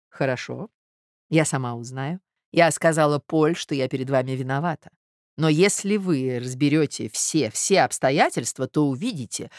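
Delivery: restrained, soothing self-justification; pained conciliatory lady. Acted. Marya justifies herself to the suitor, conciliatory. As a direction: coax him with measured sincerity.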